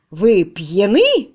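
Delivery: slow, loud indignant question. Acted. The master, outraged, asks the tutor if he is drunk. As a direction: drag it out, outraged. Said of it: "возмутился хозяин".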